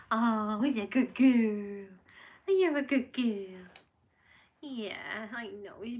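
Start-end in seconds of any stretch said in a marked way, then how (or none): 0.1-3.7 loud, eager praise for the dog; excited praise. Real, not acted. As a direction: cheer her on loudly.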